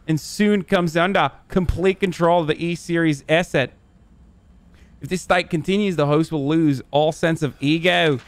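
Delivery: Australian accent, played up for the chat; put-on Australian accent. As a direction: read it out in a shaky-quality imitation Australian accent. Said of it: "tell me that accent isn't good".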